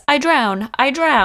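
high, rising panic in a hammed-up plea; comic desperate yelp; mock drowning cry. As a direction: wail like a drowning dog. Drowning dog cries.

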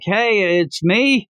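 lightly acted calling into a room; mock calling out. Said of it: "he's yelling out into this room".

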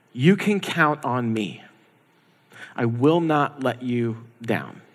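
slow, measured vow; weighty, unhurried pledge; earnest promise. Acted. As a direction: promise it slowly and solemnly. Acting out a promise to God.

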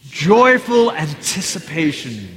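slow, hearty group-leading cry; with gusto. Shown as a demonstration. Preacher leads congregation in saying it together, with gusto. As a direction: stretch it out with real gusto. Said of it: "Say it with gusto".

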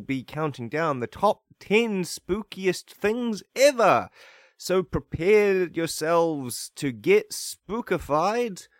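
slow, loud spooky announcer; dramatic announcer. Pretend. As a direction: build it up like a horror trailer.

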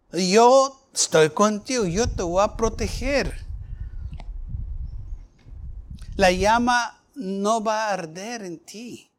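measured, drawn-out scripture proclamation; slow, deliberate pulpit delivery; preaching. Acted. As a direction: stretch each phrase of the promise.

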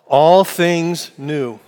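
drawn out slowly, each word weighted; slow unison call. Shown as a demonstration. Pastor leading the congregation in the series title, slow and deliberate. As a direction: lead the room through it slowly. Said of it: "Would you say it with me?".

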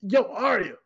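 mock hail to get someone's attention; calling out. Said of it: "he can be like".

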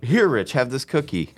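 high, sly offering; mock innocent offer. Husband offers Rich the strong cookie, sly high voice. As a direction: hand it over with fake innocence.

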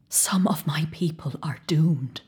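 hushed, doomed whisper; dread whisper. Acted. O'Donnell naming the banshee's omen, hushed dread. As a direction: let the fear sink it down.

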